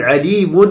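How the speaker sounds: "عليم" ending on a held "un"; sounded tanween. Shown as a demonstration. Teacher shows tanween kept in speech, sounded nun. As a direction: let the nun be heard after "عليم". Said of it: "تثبت لفظا".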